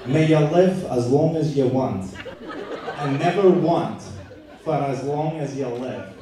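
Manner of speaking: light, laughing attempt at an Irish accent; a toast in a mock Irish accent, half laughing. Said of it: "I offer you an Irish toast in my best Irish accent".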